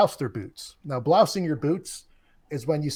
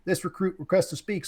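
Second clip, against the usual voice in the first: barked sir yes sir; 4 semitones higher than usual. Retold or imitated. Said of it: "I say".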